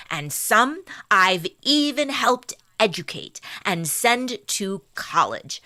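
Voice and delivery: lightly voiced genteel lady with a transatlantic accent; high class woman. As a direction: read the testimony as a dignified upper-class matron with a transatlantic accent. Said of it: "like a high class woman".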